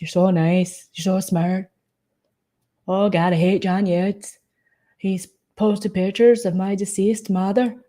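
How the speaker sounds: mock unplaceable accent, lightly exaggerated; Anne Graham. Flattering Jolene, then complaining about an enemy, in a mock accent. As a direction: impersonate her in a muddled put-on accent. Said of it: "She was like".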